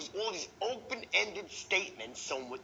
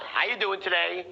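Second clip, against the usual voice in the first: loud, routine, uninterested greeting; perfunctory greeting; 5 dB louder than usual. Shown as a demonstration. Trainer showing the wrong greeting, offhand and routine. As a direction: toss it out without any interest.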